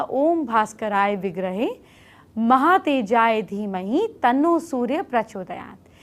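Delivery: slow, measured Sanskrit chant-like dictation; slow mantra recitation. Shown as a demonstration. Astrologer giving viewers a mantra to note down, recited slowly. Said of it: "मैं धीरे-धीरे बोल रही हूँ".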